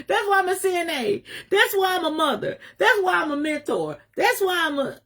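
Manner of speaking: real crying rising in pitch; choked up. Real, not acted. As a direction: voice breaking high with tears. Tearful about why she cares.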